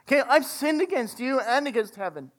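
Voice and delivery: a hint of a begging son, calling up then pleading. Ashamed son pleading with his father, lightly voiced. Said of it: "the son calls out to the father".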